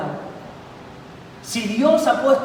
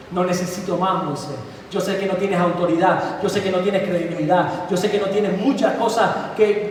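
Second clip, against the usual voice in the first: God's voice; 3 semitones lower than usual. Acted. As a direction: speak as God, settling Moses' doubts. God voiced answering Moses. (Dios le responde a Moisés con voz baja y serena)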